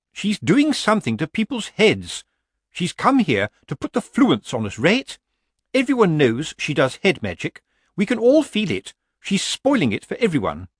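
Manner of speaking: high, aggrieved busybody; indignant committee woman. A narrator's reading. Committee woman accusing a rival of head magic, indignant. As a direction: complain in a high-pitched, put-out voice. Lettuce complains to Nanny.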